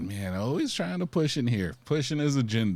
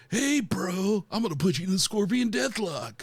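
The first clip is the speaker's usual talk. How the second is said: pitched-up surfer dude voice; 9 semitones higher than usual. Acting out how he talked: surfer dude voice. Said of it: "he was just like a surfer dude".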